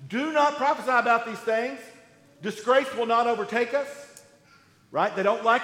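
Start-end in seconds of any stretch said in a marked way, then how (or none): 0.1-3.9 indignant prophets. Acted. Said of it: "their prophets say".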